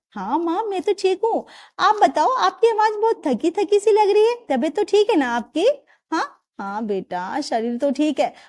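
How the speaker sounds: worried questions down the phone; concerned daughter. Acted. Daughter asks her tired mother on the phone, lightly voiced.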